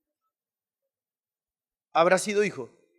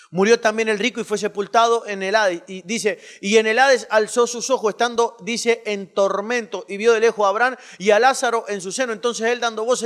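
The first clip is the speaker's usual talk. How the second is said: loud, fast preaching read; forceful scripture reading; 3 semitones higher, 8 dB louder, faster than usual. Acted. Preacher reading the rich man's plea aloud, loud and fast. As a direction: drive the verses out with force.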